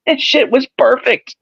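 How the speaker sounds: high, drawn-out gleeful quote; retold delight. Man recalls cracking up at the fan, high-pitched delight. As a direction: stretch it out high, savouring the moment.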